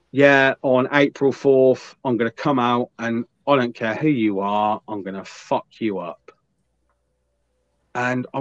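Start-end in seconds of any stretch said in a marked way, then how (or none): 0.1-6.3 slow, understated imitation of a tough wrestler's threat; mock British wrestling promo. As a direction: lightly mimic a cheesy wrestling promo, drawn out. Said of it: "a typical British wrestling promo".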